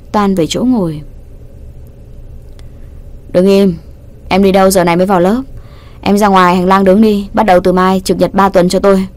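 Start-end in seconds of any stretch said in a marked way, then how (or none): 3.3-9.1 stern scolding. Acted. Teacher sternly punishes the late student in class. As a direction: lay down the punishment firmly.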